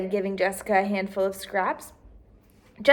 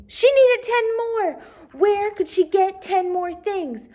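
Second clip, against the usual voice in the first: high, slow worried reading; rising worry; 10 semitones higher, 4 dB louder, slower than usual. A narrator's reading. Reader voicing Jessica's mild panic, high and slow. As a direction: let the worry creep in.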